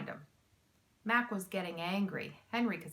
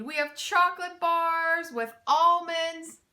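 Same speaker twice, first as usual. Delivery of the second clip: higher and louder, giggly; still laughing; 8 semitones higher, 6 dB louder than usual. A narrator's reading. Mac lists candy to thieves, laughing. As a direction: keep rolling with laughter. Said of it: "Mac continued laughing".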